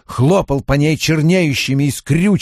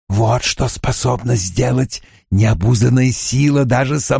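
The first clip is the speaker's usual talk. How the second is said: menacing villain; 2 semitones higher than usual. Acted. Baalzamon threatens Rand.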